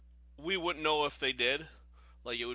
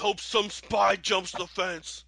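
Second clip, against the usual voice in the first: high slow hopeful clerk voice; wishful daydreaming clerk; bored embassy clerk; 6 semitones higher, 8 dB louder than usual. Pretend.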